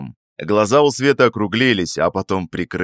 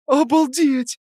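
high, airy gasp of amazement; breathless exclaim; slower than usual. A narrator's reading. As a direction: breathe it out, stunned. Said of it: "выдохнула она".

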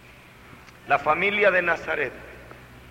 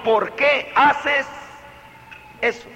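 calm question; 5 semitones higher than usual. Shown as a demonstration.

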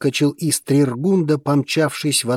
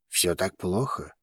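soft, lower sympathetic question; 4 semitones lower, 9 dB quieter than usual. A narrator's reading. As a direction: ask gently, with sympathy. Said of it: "сочувственно спросил вулкан".

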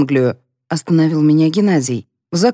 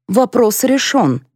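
slow, stony verdict; 6 semitones higher, slower than usual. A narrator's reading. Grandmother declaring the matter decided, stony. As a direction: close the matter slowly and firmly. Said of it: "каменным тоном произнесла Мария Ивановна".

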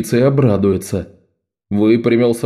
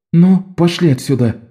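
put-on higher, bossy girl's voice; higher commanding girl; Bet ordering; 7 semitones higher than usual. A narrator's reading. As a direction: herd the boys off firmly. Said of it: "велела Бет".

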